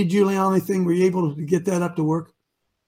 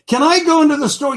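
higher, louder pleading question; meek citizen asking; 7 semitones higher, 6 dB louder than usual. Retold or imitated. Host acting a citizen begging the store's permission, higher. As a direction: beg like a timid subject.

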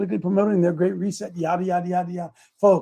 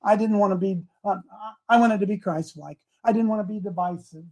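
timid excuse; 5 dB quieter than usual. Acted. Betty's timid excuse to God.

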